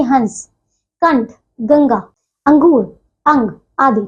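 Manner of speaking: slow, clear example words; slow reading. Shown as a demonstration. Teacher to pupils, reading example words slowly. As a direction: read each example out slowly. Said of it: "teacher reading example words".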